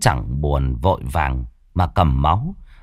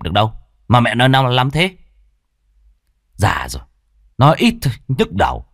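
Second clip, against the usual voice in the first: son snapping; 3 semitones higher, faster than usual. Acted. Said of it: "Bà cụ nghe con quát".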